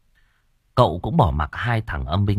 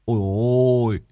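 gleeful delight; 3 semitones higher than usual. Acted. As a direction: gush over the food like striking gold. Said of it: "cười như bắt được vàng".

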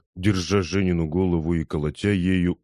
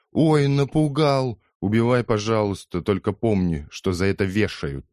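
scornful mockery; 4 semitones higher than usual. Wife mocks husband's threat.

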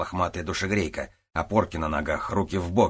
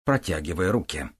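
plain reading voice

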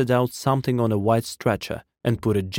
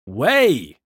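raised call with a swooping pitch; crying out; 3 semitones higher, 4 dB louder than usual. A narrator's reading. Men all about him, crying out. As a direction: call out to clear a path. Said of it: "cried the man all about him".

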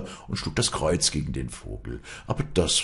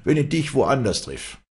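higher, mildly menacing warning; threatening; 10 semitones higher, 5 dB louder than usual. Acted. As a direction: threaten the bird. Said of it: "drohte er".

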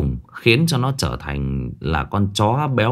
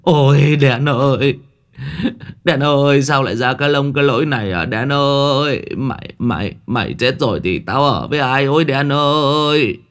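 wailing lament; 5 semitones higher than usual. A narrator's reading. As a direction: howl with grief over the dog. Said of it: "rú lên". (rú lên khóc thương con chó)

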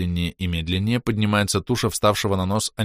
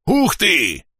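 amazed; 9 semitones higher, 3 dB louder than usual. Acted. Amazed at the rising mountain.

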